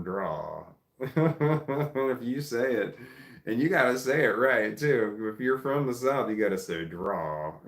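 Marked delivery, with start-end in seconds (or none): 0.0-0.6 southern drawl on DRAW. Shown as a demonstration. Explaining the southern accent, DRAW drawled long. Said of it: "a southern draw". 6.8-7.5 southern drawl on DRAW. Shown as a demonstration. Showing how the South says it, DRAW drawled. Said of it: "almost like it's two syllables".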